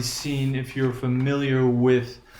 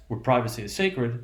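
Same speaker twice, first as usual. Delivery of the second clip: "where privacy is sacred" set a little under the main sentence; parenthetical aside. Shown as a demonstration. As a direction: drop "where privacy is sacred" in as a side remark. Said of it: "It's sort of like an aside".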